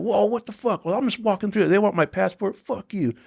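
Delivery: high, brash dismissive rant; high mocking bravado; cocky tour manager. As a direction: brush off security like a big shot. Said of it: "He's like".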